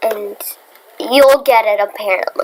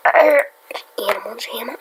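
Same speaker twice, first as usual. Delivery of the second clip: whispering; slower than usual. Real, not acted. Grumbling at the game.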